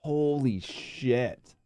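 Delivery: very slow, drawn-out amazement; stunned disbelief. Real, not acted. Streamer hearing the four minute record, stunned. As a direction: stretch it out, floored.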